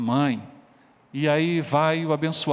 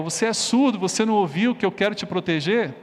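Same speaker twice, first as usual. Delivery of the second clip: higher, exasperated scolding question; mildly angry father; 4 semitones higher than usual. Acted. Father re-enacted scolding his son, mildly angry. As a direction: scold like a fed-up dad.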